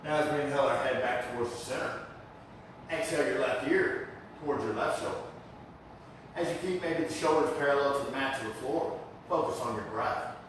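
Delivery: unhurried breathing cues with pauses; calm yoga teacher's guiding voice; guided yoga instruction. Real, not acted. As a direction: lead the class gently into the breath. Leads yoga class.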